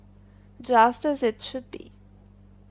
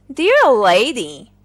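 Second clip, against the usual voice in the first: slow, louder, put-on gallant voice; flirtatious collar; 8 dB louder than usual. Collar courting the box iron, hammed-up gallant. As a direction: woo her grandly.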